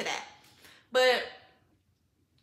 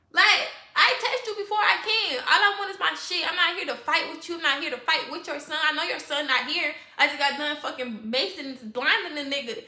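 heated, raised-voice self-defence; retold mad outburst; 2 semitones higher, 4 dB louder than usual. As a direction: argue your case, annoyed. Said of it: "I was mad by that part".

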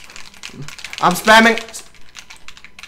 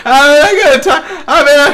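laughing; 5 semitones higher than usual. Real, not acted. Laughing while escaping in game.

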